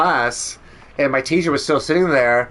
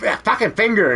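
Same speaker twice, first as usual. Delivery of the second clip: retold pain; 10 semitones higher than usual. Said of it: "And I'm like".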